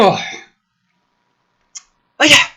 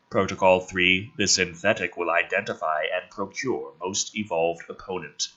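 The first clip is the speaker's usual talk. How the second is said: mock digitized voice; 11 semitones lower, 7 dB quieter than usual. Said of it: "a digitized voice issues from the device".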